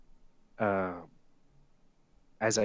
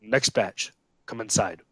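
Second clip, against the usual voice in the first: gruff voice; 4 dB louder than usual. Acted. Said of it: "you'll hear a gruff voice from inside say".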